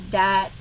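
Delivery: "dat" with a hard D in place of TH; Cajun D sound. Shown as a demonstration. Showing how actors say words, a hard "dat". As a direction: punch the D in "dat". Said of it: "emphasis on the D".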